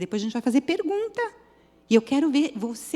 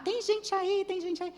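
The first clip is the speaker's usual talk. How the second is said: retold calling for help; 9 semitones higher, 3 dB quieter than usual. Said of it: "comecei a gritar".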